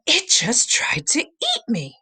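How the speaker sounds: breathless whispered disbelief; shaken whisper. Acted. Sam telling the caretaker what happened, whispering. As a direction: whisper it, still in shock. Shaken after near death.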